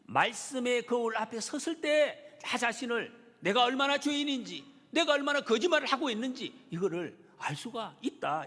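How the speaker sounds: high, loud, impassioned sermon delivery; full-force preaching. Real, not acted. Preacher urges congregation to see their sins, full-force preaching. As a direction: drive each phrase home to the congregation.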